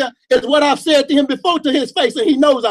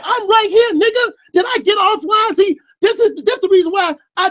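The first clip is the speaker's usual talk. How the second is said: raised, higher, shouting at a rival; heated raised voice at the other guest; angry call out; 3 semitones higher than usual. Real, not acted.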